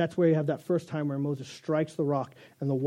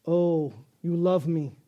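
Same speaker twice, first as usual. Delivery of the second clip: cat voice; slower than usual. Pretend. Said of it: "Cat says".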